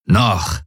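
„Noch“ allein und mit Nachdruck, fallend; betont. A narrator's reading. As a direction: betone „Noch“ als knappen Einwand. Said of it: "betonte der Feldherr". (nachdrücklich betontes „Noch“)

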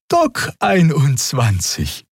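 slow, high, friendly answer; amiable. A narrator's reading. Xia answering the officer amiably, slow and high. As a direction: answer sweetly to disarm the guard. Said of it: "antwortete Xia liebenswürdig".

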